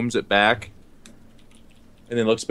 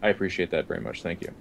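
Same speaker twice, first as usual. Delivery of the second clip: queasy thanks; 5 semitones lower, 10 dB quieter, faster than usual. Acted. Character fighting nausea.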